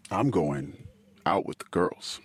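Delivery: hushed, breathy brush-off; whispered excuse. Retold or imitated. Wife dodging her husband's question, whispered. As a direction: slip the answer out under your breath. Wife's evasive answer retold.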